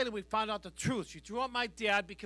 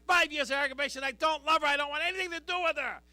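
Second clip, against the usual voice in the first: loud, higher exasperated protest; exasperated retort; 4 semitones higher, 6 dB louder, faster than usual. Retold or imitated. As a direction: vent it, building in volume. Exasperated retort about ex-wife.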